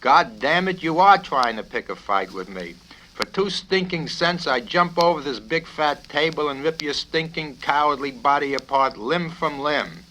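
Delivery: loud, high raging threat; furious threat. Acted. Colonel threatening to rip the cadet apart, raging. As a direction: threaten him with full rage.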